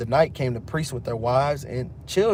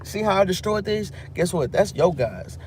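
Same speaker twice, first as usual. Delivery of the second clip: taunting Daniel; 5 semitones higher than usual. Retold or imitated. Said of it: "He said".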